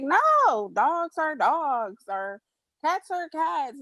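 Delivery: high, slow, stressed insistence; emphatic retort. Retold or imitated. Arguing with her dad, slow emphatic insistence. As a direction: lay down each word like an obvious fact. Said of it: "And I'd be like".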